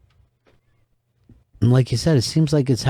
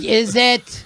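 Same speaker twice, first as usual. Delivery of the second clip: crowd gasp; 10 semitones higher than usual. Retold or imitated. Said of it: "they were like".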